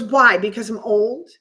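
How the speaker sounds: mock indignant question, hit hard at the start; retold snap. Older woman answers an offer of help, imitated snappishly. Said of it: "she snaps at me".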